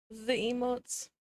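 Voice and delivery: delighted. Real, not acted. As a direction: stretch "The emotes" out slowly, voice lifted in delight. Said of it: "repeated slower and higher".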